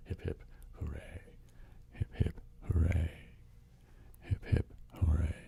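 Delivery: celebratory hip-hip chant; three cheers. Real, not acted. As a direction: lead three hip-hip-hoorays. Leads three cheers for a donor.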